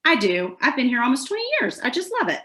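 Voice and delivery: upbeat answer, pitch lifting as it goes; cheerful reply. Acted. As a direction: gush lightly about the adopted city.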